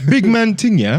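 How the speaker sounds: mock London roadman accent. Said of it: "Top Boy shit".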